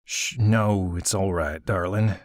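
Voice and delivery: put-on calm the girl down; soothing. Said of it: "Hattie soothed".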